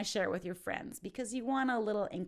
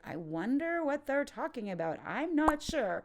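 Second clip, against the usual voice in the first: questioning; 5 semitones higher than usual. Shown as a demonstration. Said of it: "in a questioning kind of way".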